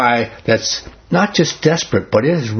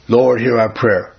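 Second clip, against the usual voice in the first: slow, mechanical recital with no heart; rote prayer; 3 semitones lower than usual. Retold or imitated. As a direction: recite it by habit without meaning it. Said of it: "Is your heart really in it?".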